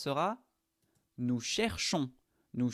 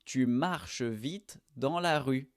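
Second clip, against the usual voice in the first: slow model sentence; slower than usual. Shown as a demonstration. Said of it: "Marcher avec tu".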